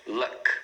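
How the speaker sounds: LUCK as a single syllable cut at K; one-syllable pronunciation. Shown as a demonstration. Teacher counts one syllable, correct pronunciation. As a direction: say "luck" alone, ending on the K. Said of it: "uma sílaba".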